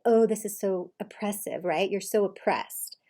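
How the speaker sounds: drawn-out sarcastic mimicry; mocking. Coach imitating husband ridiculing wife's complaint, mocking. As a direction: stretch it out to ridicule her. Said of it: "mocking her".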